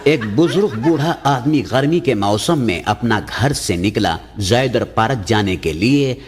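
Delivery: ordinary talk, nothing marked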